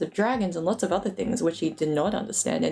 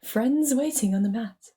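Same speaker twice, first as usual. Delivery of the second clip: put-on a raised, older wizard voice, lightly done; Gandalf's voice; 4 semitones higher than usual. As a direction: scold Bilbo gently like an old wizard. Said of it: "he said".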